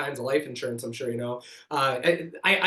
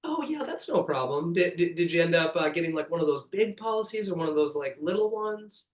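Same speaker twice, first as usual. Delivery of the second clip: talking to grandma. Shown as a demonstration. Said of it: "I stayed talking like I'm talking to grandma, pace-wise".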